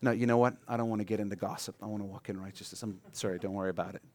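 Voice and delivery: soft, fast, teasing refusal; coy refusal. Retold or imitated. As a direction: hush it away, mock pious. Coyly refusing to share gossip.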